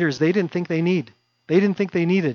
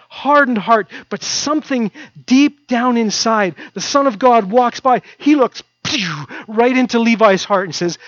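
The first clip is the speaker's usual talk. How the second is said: louder, higher preaching with rising fervour; fervent preaching; 5 semitones higher, 5 dB louder than usual. Acted. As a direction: drive the story home from the pulpit. Preaching builds in intensity.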